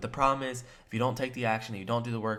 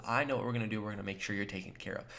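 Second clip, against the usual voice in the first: stern, confident close; faster than usual. Shown as a demonstration. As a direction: close the deal like you're in charge. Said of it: "you wanna be stern and have a strong sense of".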